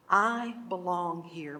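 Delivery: slow, measured affirmation; mantra. Shown as a demonstration. Teacher showing the class a mantra to hold, slow and measured. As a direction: draw the words out as a mantra. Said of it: "hold that mantra".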